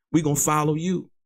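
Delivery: imitated shout. Retelling a late-night parking lot talk, a reply called back: imitating someone yelling back. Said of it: "Faith yelled back".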